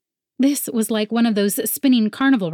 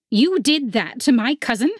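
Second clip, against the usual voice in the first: snarling officer; 5 semitones higher than usual. A narrator's reading. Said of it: "focusing a snarl".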